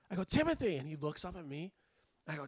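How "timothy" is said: high-pitched call of a name; calling out sharply. Retold or imitated. EMT trainee to patient grabbing everything, calling out. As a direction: call out to grab his attention.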